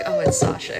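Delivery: high mock kid voice; mock kids' voice. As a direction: squeak it like an unimpressed kid. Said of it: "they'll be like".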